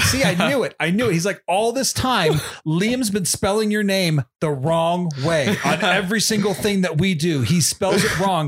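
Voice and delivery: a hint of a know-it-all coworker; imitating Kirk.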